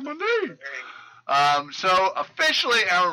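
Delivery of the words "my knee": weird southern twang. Retold or imitated. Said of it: "With, like, this weird accent".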